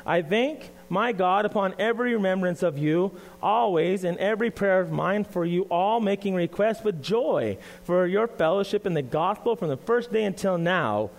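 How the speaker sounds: measured, solemn reading of the epistle; scripture reading. Acted. Pastor reading Philippians to the church, solemn and measured. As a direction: read the Bible passage deliberately to the congregation. Reads scripture aloud before sermon.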